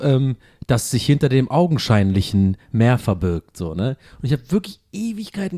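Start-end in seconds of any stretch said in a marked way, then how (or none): 0.7-3.6 eerie announcer voice. Retold or imitated. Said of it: "der sagt an einer Stelle so".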